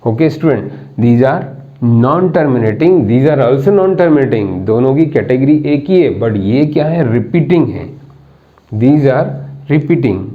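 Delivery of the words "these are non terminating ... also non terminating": spaces the words out very slowly; slow dictating teacher; slow dictation. Shown as a demonstration. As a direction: let them write each word.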